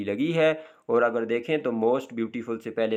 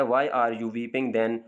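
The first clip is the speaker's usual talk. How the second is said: slow example reading; 2 semitones lower, much slower than usual. Shown as a demonstration. Reads example question.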